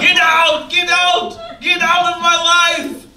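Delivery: repeated angry yell to get out; Johnny shouting at Lisa as she slams the door. Acted. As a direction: throw her out with a shout. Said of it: "Johnny is yelling".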